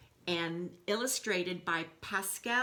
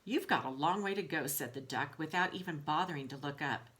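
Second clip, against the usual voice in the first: lively storybook read-aloud to the class; reading to children. A narrator's reading. Teacher reading Wolf to her class in a storybook voice. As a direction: tell the story to the kids with expression.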